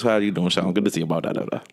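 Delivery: lightly voiced Boomhauer-style mumble; John Bull. Friend imitating an old camper's greeting, Boomhauer-style mumble. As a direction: let the greeting run into a mock mumble. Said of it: "he talked like this".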